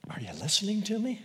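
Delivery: a lightly voiced, exasperated wife; nagging wife. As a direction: pester him like an annoyed wife. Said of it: "the wife that says to her husband".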